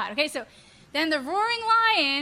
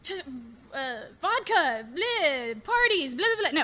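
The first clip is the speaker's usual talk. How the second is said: mock thoughts. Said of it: "Don't just start thinking".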